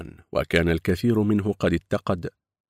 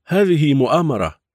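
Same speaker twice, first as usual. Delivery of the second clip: indignant; 8 semitones higher, 7 dB louder than usual. Acted. Protesting conspiracy.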